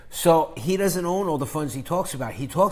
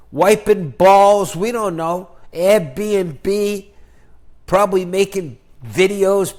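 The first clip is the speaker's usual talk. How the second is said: louder, higher taunting; gleeful mockery; 3 semitones higher, 7 dB louder than usual. Mocking a vanished rival YouTuber, loud and gleeful. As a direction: gloat loudly over a rival who quit.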